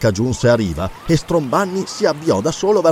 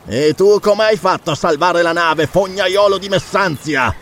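insulting retort; 5 semitones higher than usual. Acted. Rival throws back an insult.

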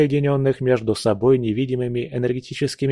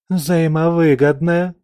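slow, higher, incredulous echo of взаимовыгодное; mocking echo; 6 semitones higher, 4 dB louder than usual. A narrator's reading. Aisha echoes Leos's offer in mocking disbelief. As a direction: repeat his word as if it's absurd. Aisha mocks his word.

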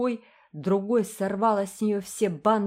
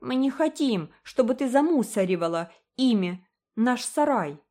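put-on higher, louder scornful girl; scornful taunting; 6 semitones higher, 4 dB louder than usual. A narrator's reading. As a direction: toss the bows back. (презрительно)

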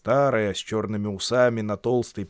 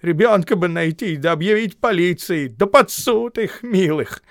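grumbling; 8 semitones higher, 8 dB louder than usual. A narrator's reading. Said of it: "Губин огорчился".

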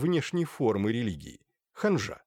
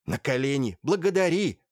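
commanding; 2 semitones higher, 4 dB louder than usual. A narrator's reading. Mother orders daughter to kneel.

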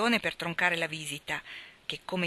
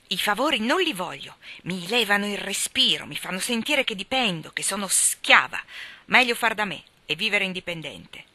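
defiant outburst; 3 semitones higher, 5 dB louder than usual. Acted. Jo ribelle rifiuta i favori.

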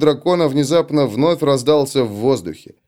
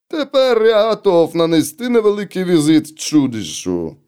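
a dwarf engineer's voice, raised; gruff dwarf voice; 6 semitones higher than usual. Acted. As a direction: voice the dwarf boldly. Malakai speaks in the story.

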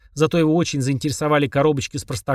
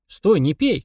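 shout; 4 semitones higher, slower than usual. Acted. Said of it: "крикнул Денис".

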